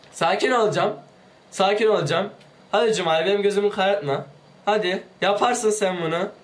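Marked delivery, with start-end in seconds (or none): none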